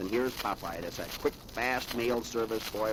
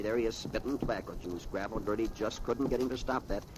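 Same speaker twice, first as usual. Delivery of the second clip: usual speaking voice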